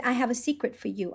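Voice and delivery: put-on softly, like a little girl sharing a secret; hushed confiding child; child's secret voice. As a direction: lean in and tell the secret softly. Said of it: "when kids wants to speak like that".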